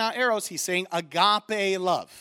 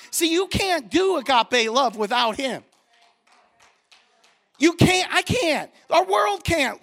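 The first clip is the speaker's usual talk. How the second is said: fired-up preaching; 2 semitones higher than usual. Real, not acted. Pastor preaching on love, raising his voice with fire. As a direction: preach it hard to the congregation. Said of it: "Let me get my preaching going on here".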